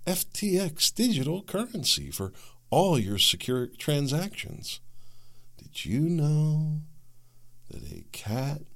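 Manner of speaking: a hint of a sterile radio announcer, slow; mock NPR sponsor read. Podcaster parodying an NPR ad read, slow and lightly voiced. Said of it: "I can't even really do a good impression".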